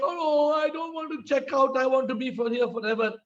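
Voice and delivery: lightly acted protest at checkout; mock pleading. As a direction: plead to stay, a little theatrically. Acted guest refusing to check out.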